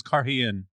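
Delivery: "Karhian" with a bitten H and two vowels after it; bitten H, doubled vowel. Shown as a demonstration. Co-host showing how the show said it, "Karhian" with a sharp H and stressed i. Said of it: "bit the H and double voweled it".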